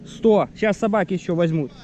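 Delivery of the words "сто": high, eager hunting report; excited. Real, not acted. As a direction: blurt it out, keyed up. Excited report of wounded bird. (взволнованно)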